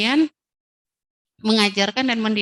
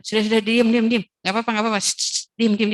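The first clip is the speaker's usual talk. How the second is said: hushing demo; 3 dB louder, faster than usual. Shown as a demonstration.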